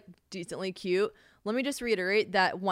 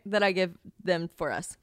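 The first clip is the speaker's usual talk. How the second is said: ordinary delivery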